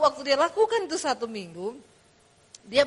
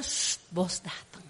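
slow unvoiced whisper, much lower; hushed warning; 9 semitones lower, 12 dB quieter, much slower than usual. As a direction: whisper it urgently, slowly. Employees hushing as boss arrives.

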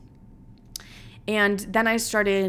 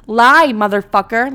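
exasperated outburst; 2 semitones higher, 9 dB louder than usual. Real, not acted. Venting about the refusal.

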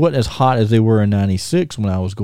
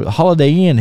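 higher, louder mock call from the groupies; girls calling out; 7 semitones higher, 4 dB louder than usual.

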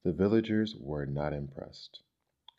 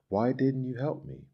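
put-on high, small child's voice; plaintive, pitched up but not hushed; 7 semitones higher, 4 dB louder than usual. A narrator's reading. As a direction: ask it like a wounded little boy. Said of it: "asked in a small voice".

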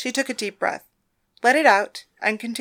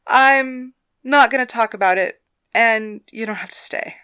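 raised, insistent voice; firm refusal; 2 semitones higher, 6 dB louder than usual. Acted. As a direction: push back hard, upset. Thalia refusing, upset.

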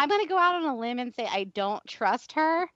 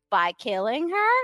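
slow deadpan Hope voice; slower than usual. Pretend. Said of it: "Hope is like".

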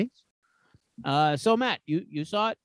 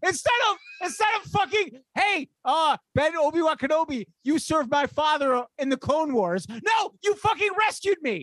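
heated rant; 3 semitones higher than usual. Real, not acted. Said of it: "I'm getting hostile".

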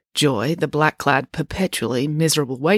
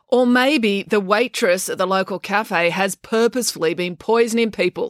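slow, higher, pointed accusation; 5 semitones higher than usual. Acted. April glaring back at the waitress, accusing. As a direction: accuse her slowly and loftily.

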